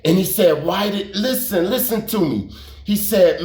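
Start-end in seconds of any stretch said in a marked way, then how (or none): 0.6-2.5 mock-agitated plea, pitched up; retold anger. Country mad at him for telling, imitated higher agitated demand. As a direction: imitate an upset friend demanding attention. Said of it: "he was mad at me".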